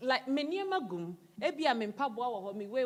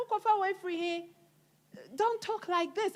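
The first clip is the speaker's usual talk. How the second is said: higher-pitched, firm mock telling-off; a mother reprimanding, pitch raised; stern scolding; 6 semitones higher than usual. Mother scolding her teen for bad language, stern and raised.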